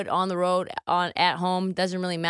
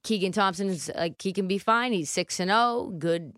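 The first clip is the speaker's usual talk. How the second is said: Coach Patsos voice; 2 semitones higher than usual. Retold or imitated. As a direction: talk it up like a fired-up coach, unhurried. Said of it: "is this your Coach Patsos voice?".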